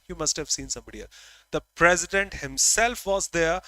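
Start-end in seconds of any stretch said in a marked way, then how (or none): 1.5-3.6 "president himself" said louder and insistent; emphatic noun. Shown as a demonstration. Teacher showing an emphatic pronoun, "president himself" stressed. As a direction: lean firmly on "president himself". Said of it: "So now emphasizing the object".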